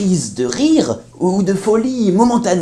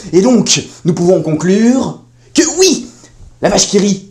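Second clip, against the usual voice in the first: horror host. Acted. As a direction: unveil the devil's secret with relish. Expert reveals demonic cheese conspiracy.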